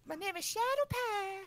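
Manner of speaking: parody YouTuber intro. Acted. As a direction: squeal your name like a YouTube intro. Parody of the intro with own name.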